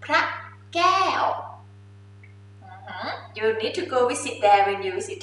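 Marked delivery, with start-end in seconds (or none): 0.0-1.2 each syllable of วัด พระ แก้ว spoken apart with pauses. Shown as a demonstration. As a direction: break วัดพระแก้ว into separate beats. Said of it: "Say it again".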